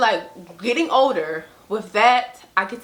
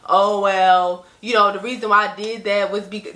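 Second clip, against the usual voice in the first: mimicking mom's excuse. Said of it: "I would never not be like".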